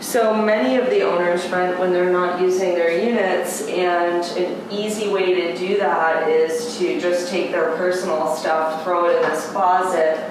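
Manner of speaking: muffled through a face mask; talking behind a face mask. Real, not acted. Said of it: "It's really hard to talk with a mask on".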